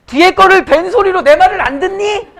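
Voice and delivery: loud, laughing mock scold at the class. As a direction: shout it at them, half laughing. Teacher scolds class, half laughing.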